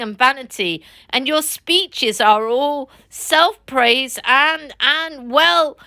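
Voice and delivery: a hint of a gruff blunt Badger; lightly voiced blunt Badger. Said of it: "put in the Badger in his common way".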